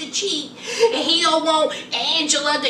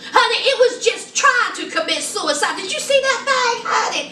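amused disbelief; 6 semitones higher than usual. Real, not acted. Laughing at a guest's teeth.

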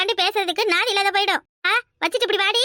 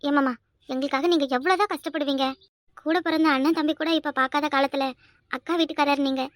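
softly moved; 4 semitones lower, 3 dB quieter than usual. Acted. Girl thanks uncle, wants to leave.

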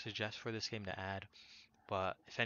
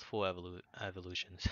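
stuttering; 2 semitones lower than usual. Real, not acted. Gamer explaining both are full evolutions, stuttering. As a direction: stumble on "evolutions" and restart it. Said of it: "I'm stuttering on that word".

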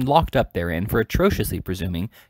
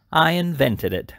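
slow, raised, self-important declaration; great pride; 6 semitones higher, slower than usual. A narrator's reading. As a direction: announce it proudly, drawing out the words. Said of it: "with great pride and said".

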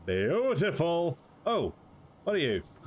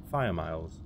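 low rumbling title; 7 semitones lower than usual. Shown as a demonstration. Gamer naming his hero, in a deep trailer voice. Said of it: "there we go".

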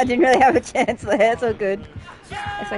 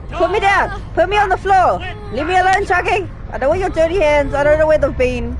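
pleading protest; 4 semitones higher, 3 dB louder than usual. Real, not acted. Protesting character grab.

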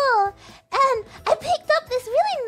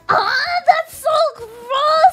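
rude disgusted woman; 3 dB louder than usual. Retold or imitated. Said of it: "she was all like".

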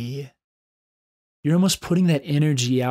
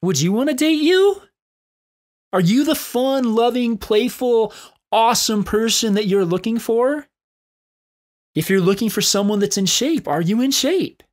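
energetic challenge; 7 semitones higher, 3 dB louder than usual. Real, not acted. Challenging the listener directly.

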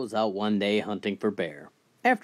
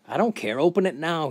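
demanding shout; 6 semitones higher, 4 dB louder than usual. Acted. Robber demands the vault opened.

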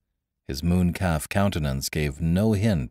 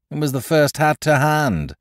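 airy; 8 semitones higher, 5 dB louder than usual. A narrator's reading. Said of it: "explained his brother airily".

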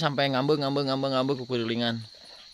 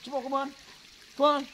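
squeaky coaxing a dog; 11 semitones higher, 4 dB quieter than usual. Real, not acted. (suara cempreng membujuk anjing)

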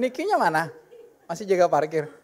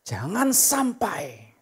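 ordinary talk, nothing marked

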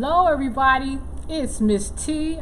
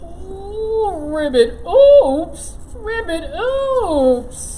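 startled little frog croaking oops; 3 semitones higher, 4 dB louder, much slower than usual. Acted. Frog puppet tumbling into the hole, yelping. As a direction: play the clumsy frog, yelping as he falls.

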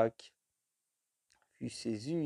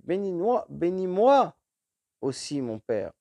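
pleading; 4 semitones higher than usual. Acted. Esau begs his father.

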